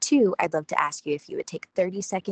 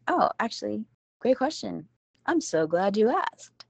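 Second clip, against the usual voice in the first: bright cheerful reply; 5 semitones higher than usual. Pretend. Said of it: "just think about, like".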